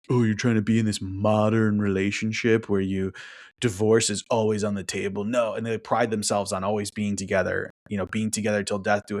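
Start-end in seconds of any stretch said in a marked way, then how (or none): 0.1-5.2 mock disapproving objection; imitated disapproval; mimicking critics. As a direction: put on a critic's scoffing voice. Voices critics who disagree with him.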